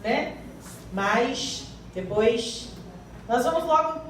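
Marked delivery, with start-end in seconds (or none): 0.9-2.7 accent with drawn-out S. Shown as a demonstration. Preacher showing the congregation how a regional accent sounds, S-heavy accent. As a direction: lean on the final S like a regional accent. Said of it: "puxando o S".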